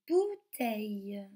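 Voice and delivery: "bouteille" slowly, the ou held long; drawn-out OU sound. Shown as a demonstration. Teacher has children listen for ou in a word, slow "bouteille" with long OU. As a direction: stretch the OU in "bouteille". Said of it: "dans le mot".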